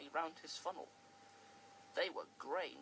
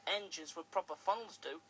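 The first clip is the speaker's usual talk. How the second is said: cheeky; 4 dB louder than usual. Acted. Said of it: "in his cheeky way".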